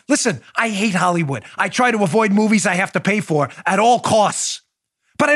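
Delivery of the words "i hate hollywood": usual speaking voice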